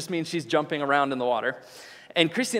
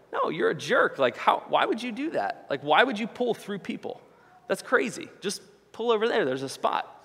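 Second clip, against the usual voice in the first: higher-pitched exasperated crowd voice, retold; indignant rebuke; 5 semitones higher than usual. Beachgoers telling off the boater, indignant imitation. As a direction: imitate bystanders baffled by someone's rudeness.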